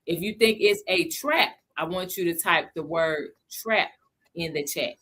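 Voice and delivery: slow, measured words with a pause before "in the chat"; careful and slow. Real, not acted. Live host instructing chat viewers, slow and careful. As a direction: take it slowly so it doesn't get messed up. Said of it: "I had to say that slow".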